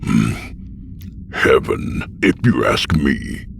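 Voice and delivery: matter-of-fact old man, lightly voiced; guileless old man. A narrator's reading. Old man answers the newcomer, mildly guileless. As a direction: answer without malice, as a lightly voiced elder. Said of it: "no malice or deceit in his voice".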